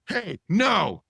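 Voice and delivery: high, loud flat-out no; mock defiant refusal. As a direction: refuse loudly, not budging. Fire chief refuses loadmaster.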